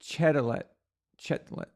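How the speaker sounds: Chetelet, Chetlet said with a hard ch as in chess, then the middle vowel dropped; his own pronunciation. Shown as a demonstration. Showing how he has always said Justin's name, hard ch. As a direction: say Chetlet with a CH like chess and the t clearly sounded. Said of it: "I've been saying it".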